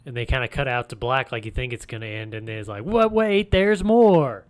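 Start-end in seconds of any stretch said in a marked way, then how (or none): 2.8-4.4 surprised. Retold or imitated. Acting surprised viewer reaction.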